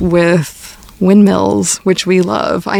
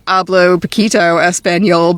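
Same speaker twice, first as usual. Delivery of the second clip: American-accented Spanish. Shown as a demonstration. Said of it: "terrible fucking accent".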